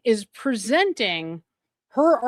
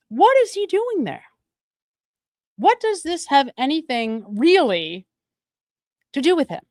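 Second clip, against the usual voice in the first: high, loud incredulous question; exasperated disbelief; 4 semitones higher, 4 dB louder than usual. Real, not acted. Commentator asking viewers why Diller is there, incredulous. Baffled anger at Diller's presence.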